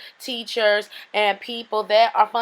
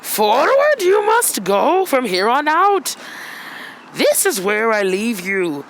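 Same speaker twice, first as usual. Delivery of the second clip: wise master voice. Acted. Master sending his pupil off alone, lightly put-on sage voice. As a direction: deliver it like a solemn sage in a light put-on accent. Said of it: "Whew, that accent was tiring".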